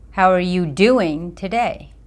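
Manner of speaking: "doing" given the weight; stress on doing. Shown as a demonstration. Speaker demonstrating inflection, stress on "doing". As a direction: land on "doing". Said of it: "It's the inflection of my words".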